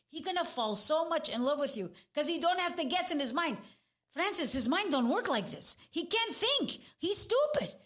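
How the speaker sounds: quoted mother. Retold or imitated. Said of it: "My mother said".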